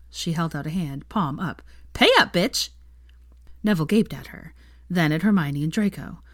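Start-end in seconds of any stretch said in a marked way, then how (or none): 1.9-2.7 whispered gleeful taunt. Acted. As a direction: hiss it out in triumph. Triumphant demand.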